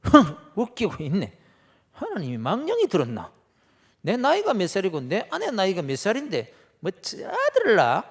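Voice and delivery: loud mocking scoff at the promise. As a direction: sneer it out, you don't believe a word. Abraham scoffing at God's promise. (비웃으며 큰 소리로 코웃음)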